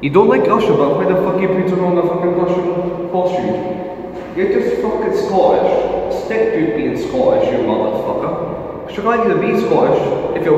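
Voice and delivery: angry rant. Real, not acted. Angry rant at rival Jamie.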